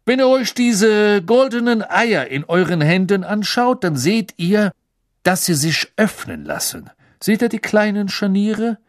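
high, booming showman's announcement; brief the champions with buoyant relish; jovial Ludo Bagman. Acted.

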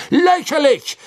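high, loud scoffing cry; called out. Acted. Minister loudly scoffs at removing the Dementors. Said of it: "rief Fudge erneut".

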